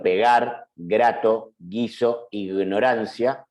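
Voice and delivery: "pegar, grato, guiso, ignorancia" with voiced velar G; hard G. Shown as a demonstration. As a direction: sound out each G as in English "go". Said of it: "¿Se dan cuenta la diferencia, cómo suena".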